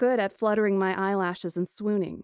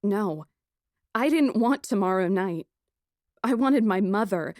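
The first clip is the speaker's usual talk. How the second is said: ordinary delivery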